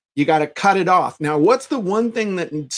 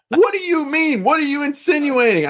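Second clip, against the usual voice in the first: much higher, offended mock outrage; indignant outburst; 10 semitones higher than usual. Imitating a psycho customer offended by the refund, high and outraged. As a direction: play the insulted customer blowing up.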